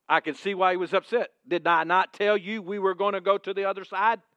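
loud, high, rousing preaching; full-force preaching. Acted. Pastor rousing the congregation to speak God's word, full-force preaching. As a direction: build the church up.

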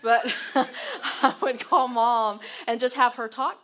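talking through a real laugh, loud and high; amused, laughter-filled telling. Real, not acted. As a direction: burst out laughing and carry on. Laughs at own joke while continuing.

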